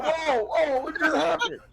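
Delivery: high-pitched mock alarm; laughing, high startled squeal; startled reaction. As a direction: react as if jolted awake by a yell. Acting a startled overnight guest.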